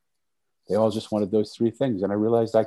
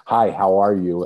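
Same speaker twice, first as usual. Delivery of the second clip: an offhand, louder passing hello; automatic salutation; 6 dB louder than usual. Shown as a demonstration. Everyday greeting nobody waits to hear answered. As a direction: toss off the greeting by habit. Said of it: "I'm not saying it as a salutation".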